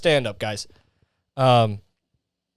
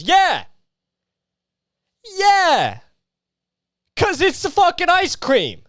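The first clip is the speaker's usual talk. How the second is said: hammed-up Italian accent, much higher and slow; 14 semitones higher, slower than usual. Ranting to viewers about ice cream, in a hammed-up Italian accent. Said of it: "I just turned into most, the most Italian".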